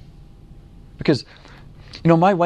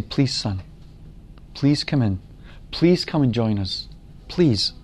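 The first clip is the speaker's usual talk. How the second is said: understated, gentle plea in a lowered voice; pleading; 2 semitones lower, 4 dB quieter, slower than usual. Acted. Father begs his angry son to join them, pleading. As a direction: plead softly, one short appeal at a time. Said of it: "He's pleading with him".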